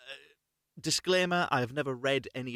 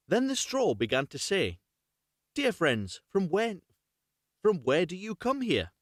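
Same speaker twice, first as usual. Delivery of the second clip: lively storybook read, a bit louder; story narration; 4 dB louder than usual. A narrator's reading. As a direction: read the fairy tale aloud to your viewers. Reads fairy tale aloud.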